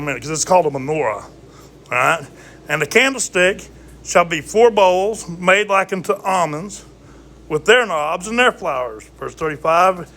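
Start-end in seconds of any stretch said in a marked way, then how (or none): 2.7-9.0 scripture reading. Acted. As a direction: read the verse like scripture. Reads scripture aloud.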